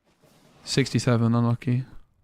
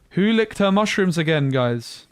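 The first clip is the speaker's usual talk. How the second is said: gasping, higher and louder; surprised gasp; 5 semitones higher, 5 dB louder, slower than usual. Real, not acted. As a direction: gasp and blurt it out. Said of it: "Who nicked my mushrooms?".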